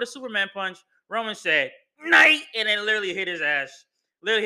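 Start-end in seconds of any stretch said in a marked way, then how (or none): 2.0-2.4 mock taunt. Roman's taunt acted out.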